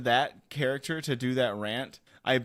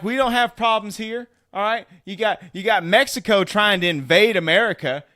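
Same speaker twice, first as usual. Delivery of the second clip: put-on Southern accent; 3 semitones higher, 4 dB louder than usual. Ranting at President Joe Biden in a Southern accent. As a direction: rail like a fed-up Southern good ol' boy. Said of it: "you take on this Southern accent".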